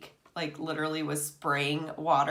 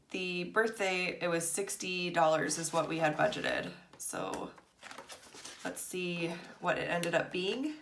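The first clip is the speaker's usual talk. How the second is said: sniffling. Real, not acted. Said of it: "sorry if I sound, like, sniffly".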